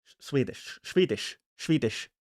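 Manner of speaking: trying out a Swedish accent; unsure Swedish accent that slips toward Dutch; tentative Swedish accent. Shown as a demonstration. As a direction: feel your way into a Swedish accent. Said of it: "What does a Swedish person sound like?".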